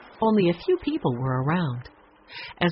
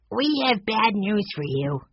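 put-on higher child's voice, a touch glum; downcast little boy; 4 semitones higher than usual. A narrator's reading. Benny brings Joshua bad news, in a glum child voice. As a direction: break bad news with a pout. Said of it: "his mouth turned downward".

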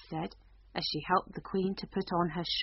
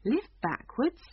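great surprise; 6 semitones higher, 3 dB louder than usual. Acted. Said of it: "in great surprise".

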